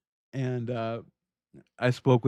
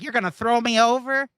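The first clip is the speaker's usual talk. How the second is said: mocking the woman; 11 semitones higher, 4 dB louder than usual. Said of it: "It's like".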